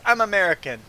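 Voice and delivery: high, loud mock indignation; acted-out huffy customer; imitating affronted cutter. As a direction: announce it loudly, as if offended.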